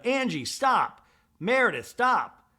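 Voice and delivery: high, drawn-out imitated command; mock ordering. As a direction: call each name out, then stretch the order. Acts Mary ordering both to stop.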